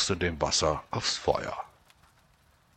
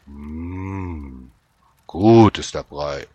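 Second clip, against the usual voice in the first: soldier voice; 9 dB louder, much slower than usual. Acted. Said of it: "lobte der Soldat".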